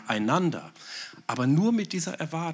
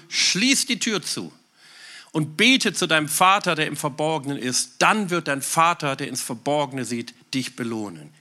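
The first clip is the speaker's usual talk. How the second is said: preached quote; 2 semitones higher, 4 dB louder than usual. Acted. Quoting Jesus, preaching.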